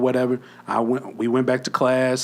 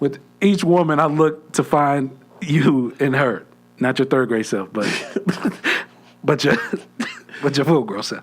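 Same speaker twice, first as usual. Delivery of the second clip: mock romantic; 4 semitones higher, 5 dB louder than usual. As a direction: ham up a grand love speech. Mock poetic declaration to crush.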